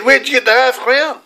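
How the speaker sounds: a mother questioning her son, suspicious. Retold or imitated. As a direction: press the child for the truth.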